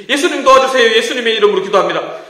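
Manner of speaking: loud, high, hurried plea; shorter urgent prayer. Shown as a demonstration. Pastor trimming the prayer, loud and rushed. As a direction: blurt the prayer out fast. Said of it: "너무 길어".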